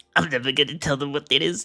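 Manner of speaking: giggling, chuckling voice. Voicing a dragon's secret thoughts, overheard by magic: giggling to himself. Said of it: "Sizzle giggling to himself".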